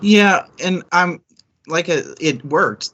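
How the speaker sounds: high-pitched, eager burst; excited. Real, not acted. Agreeing with her co-host about the suspense, high excited burst.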